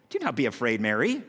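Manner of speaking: put-on calm a frightened girl; tender angel comforting Mary; gentle reassurance. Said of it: "I'll try to do it the best way I can".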